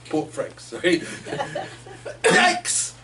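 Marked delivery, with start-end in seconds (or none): 2.2-2.9 high, louder yelp of fright; startled yikes. Acted. Heron jabbed by the otter, startled yelp.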